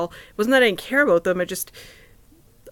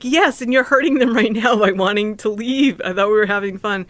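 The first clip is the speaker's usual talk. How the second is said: upset; 3 semitones higher, 5 dB louder than usual. Retold or imitated. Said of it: "why I was upset".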